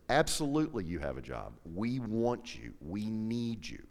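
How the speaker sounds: retold boss's sympathetic, measured reassurance. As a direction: reassure a worried employee, drawing out the words. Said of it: "being very sympathetic".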